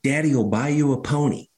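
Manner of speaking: mild mock shout to a kid on the pitch; retold yell. Father calls to daughter at soccer game, mild mock yell. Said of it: "he yells out his daughter's name".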